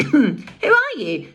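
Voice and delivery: man on the ground. A narrator's reading. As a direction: ask it as the fallen man.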